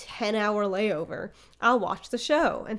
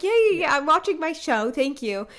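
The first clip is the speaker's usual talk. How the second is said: mock brush-off; 6 semitones higher, 3 dB louder than usual. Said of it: "I'm like".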